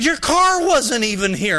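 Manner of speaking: retold accusation. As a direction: act out an aggrieved man producing his proof. Junior argues back.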